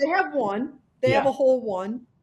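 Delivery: laughing while talking, words broken by laughs. Remarking on an article about a single fielded kit, laughing while talking. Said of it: "Sorry, I'm laughing".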